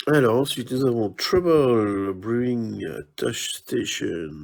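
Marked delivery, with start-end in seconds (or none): 1.1-4.3 put-on English accent, slow and careful; accent anglais. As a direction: show off your English accent on the title. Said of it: "ça, c'est de l'accent anglais". (accent anglais appuyé)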